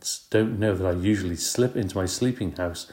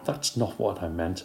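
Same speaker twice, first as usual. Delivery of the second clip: softer, sulky protest; sulky mutter; 5 dB quieter than usual. Acted. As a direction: mumble it, annoyed. Heidi sulking after frown.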